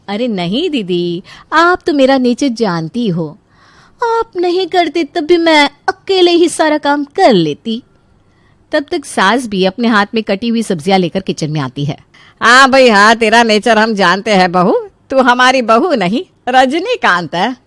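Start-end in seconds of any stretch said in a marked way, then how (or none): 0.1-7.8 slow, drawn-out self-satisfied voice; airy, slow boasting; boastful daughter-in-law. Acted. 12.4-17.6 lightly voiced teasing elder; wry, slightly raised jibe; sarcastic mother-in-law.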